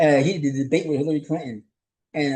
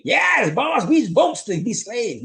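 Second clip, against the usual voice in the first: much higher, slow, sarcastic servile voice; mock enslaved voice; 9 semitones higher, 3 dB louder, much slower than usual. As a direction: sarcastically act out a servile yes-boss answer. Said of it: "Did the slaves say".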